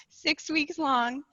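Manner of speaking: slow, laughing restart. Real, not acted. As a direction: laugh it off and say it again. Restarts laughing, still breathless.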